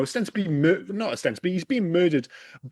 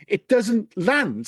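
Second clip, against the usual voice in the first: ordinary talk, nothing marked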